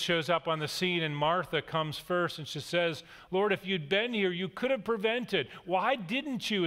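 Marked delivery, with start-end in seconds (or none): 3.3-6.7 reproachful. Retold or imitated. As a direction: let the blame creep into the question. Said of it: "is implied in the sentence".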